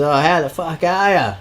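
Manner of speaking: high-pitched mock call-out; retold yell. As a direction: imitate a guy calling out to someone in a car. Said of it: "he yells out at this chick".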